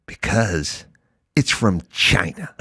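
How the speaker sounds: deadpan reply. Retold or imitated. Homan mimicked answering the congresswoman, dry deadpan. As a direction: flatly state the obvious. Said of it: "he goes".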